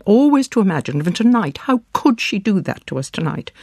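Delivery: high, fast, frantic accusation; rising hysteria. Acted. Mother rounding on her daughter, fast and high. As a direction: rush it out, pitch climbing.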